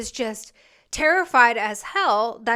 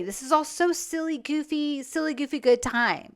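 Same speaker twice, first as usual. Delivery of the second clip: mock giggly silliness; 3 semitones higher, 3 dB quieter than usual. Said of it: "And he's giggling".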